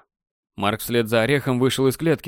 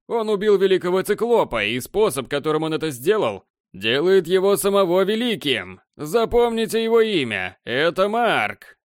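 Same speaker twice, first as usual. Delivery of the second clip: голос спортивного комментатора, всё выше и выше; раскачивай толпу, как ведущий боёв; азарт комментатора; 5 semitones higher than usual. Acted. Комментатор объявляет победу на арене. (восторженный комментатор арены)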